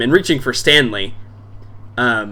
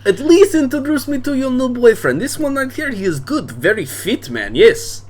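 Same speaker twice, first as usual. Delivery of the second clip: boisterous bar owner; 10 semitones higher than usual. Acted. Drunk dad welcoming daughter's friends to his bar, booming. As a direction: play the drunk dad greeting guests expansively.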